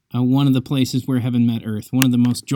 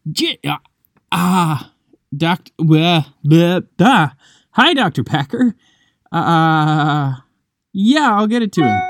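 high, louder, stammering babble; flustered and starstruck; 5 semitones higher, 4 dB louder, slower than usual. Retold or imitated. Student realizes the professor is on the phone, high stammering awe. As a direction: trip over your words, awestruck at who's calling.

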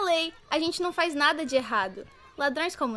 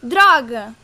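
frustrated curse; 3 semitones lower, 13 dB louder than usual. Acted. Sudden frustration.

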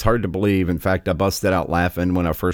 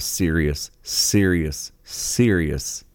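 serious said three times, each slower and falling; repeated for emphasis; 4 semitones lower, much slower than usual. Real, not acted. Host condemning the activists, slow repeated serious. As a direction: lean on serious each time. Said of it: "repeated word".

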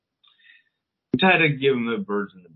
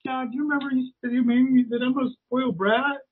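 higher, kid-like voice, imitated; imitating daughter; 11 semitones higher than usual. Daughter throwing dad's words back, higher imitated kid voice. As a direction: play the smug daughter quoting him.

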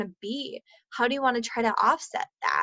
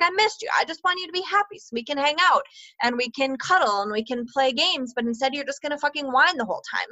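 exasperated outburst; 4 semitones higher, faster than usual. Retold or imitated. Mom venting frustration at her whining son, exasperated and fast. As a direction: vent at the whiny kid you missed all week.

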